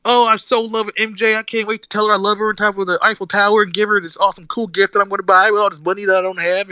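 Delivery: high, gushing mock lovesick teen; mocking lovestruck Peter. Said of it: "where it's all like".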